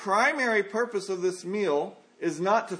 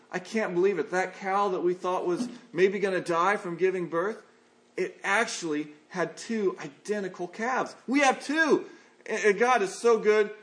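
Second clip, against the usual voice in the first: retold excitement. Farmer telling his wife about the twin calves, mildly excited. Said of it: "he was so excited".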